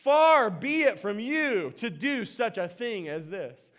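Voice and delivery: slow, coaxing plea to God. Retold or imitated. Abraham bargaining with God, slow and coaxing. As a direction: slowly talk God round, hinting. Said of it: "Listen to his tone".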